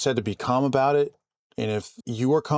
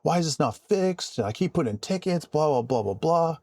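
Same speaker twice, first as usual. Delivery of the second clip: mock fed-up caller, pitched up; imitated angry caller; 5 semitones higher than usual. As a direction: mimic an irate customer complaining. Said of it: "beyond angry".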